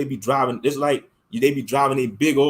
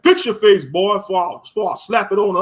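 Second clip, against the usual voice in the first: louder stern warning; stern father warning; 3 semitones higher, 4 dB louder than usual. Retold or imitated. Father scolding his pouting son, louder stern warning. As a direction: snap a firm warning at the kid. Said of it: "He'd be like".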